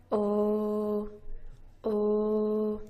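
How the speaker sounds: "Oh" held steady, lips circled, voice on; voiced rounded oh. Shown as a demonstration. Teacher showing the voice box is on, voiced oh. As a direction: keep the voice on through a round "Oh". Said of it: "your voice box is on".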